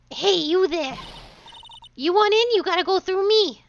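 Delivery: put-on loud, bossy old woman. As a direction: shout like a pushy old lady guard. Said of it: "I have to do an old woman voice".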